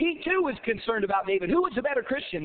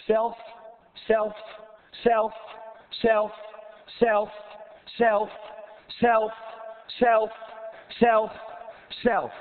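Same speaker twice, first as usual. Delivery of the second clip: building repeated word; 4 semitones lower, slower than usual. Acted. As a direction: hammer the word self harder each time until it rings. Repeating self with rising force.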